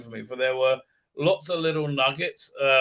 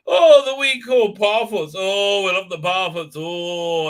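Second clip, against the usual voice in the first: hammed-up, louder, higher mock Irish accent; generic Irish accent; 4 semitones higher, 7 dB louder than usual. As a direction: lay on a stagey Irish accent. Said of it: "very generic insulting Irish accent".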